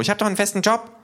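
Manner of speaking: high, loud protest; kangaroo calling out. Acted. Kangaroo objecting to deportation, high loud call. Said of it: "ruft das Känguru".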